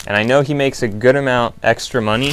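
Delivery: crunching chips; talking while crunching a snack; eating chips. Real, not acted. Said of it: "Sorry for the crunch".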